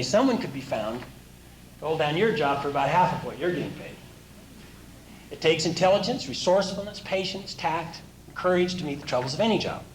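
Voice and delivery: measured inspirational reading to the audience; reading aloud. Acted. Speaker reads the course summary to listeners, earnest reading. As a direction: read it like a motivational text.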